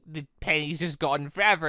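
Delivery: usual speaking voice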